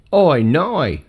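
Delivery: "I know" with both vowels as "oi"; said as "oi noi". Shown as a demonstration. Man showing the spelling O-I N-O-I, said as "oi noi". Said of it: "O I N O I".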